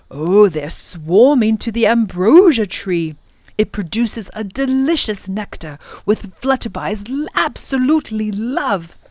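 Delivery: swooping, lilting professor voice; enthusiastic professor. Acted. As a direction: savour the explanation with relish. Professor explains the tree.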